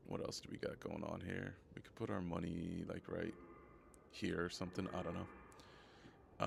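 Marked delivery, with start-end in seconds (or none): 5.0-6.5 whispered slow aside. Real, not acted. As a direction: whisper it slowly to yourself. Unsure aside to self.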